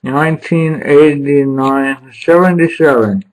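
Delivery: talking with a marker in mouth. Real, not acted. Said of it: "Sorry about the marker in my mouth".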